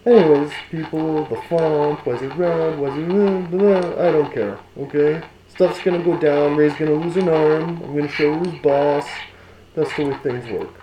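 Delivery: muffled voice behind a mask; inside a rubber mask. Pretend. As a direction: keep talking through the mask. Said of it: "this mask".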